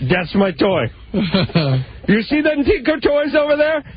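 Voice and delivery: very high mock Vietnamese accent, like an infomercial pitchman; hammed-up Vietnamese accent; Tom Vu impression. Radio host mocking Tom Vu with a Vietnamese accent. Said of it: "my Tom Vu and my Minka don't really, uh, vary too much".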